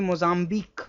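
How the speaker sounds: "Mozambique" ending "-beek", silent UE; demonstrated pronunciation. Shown as a demonstration.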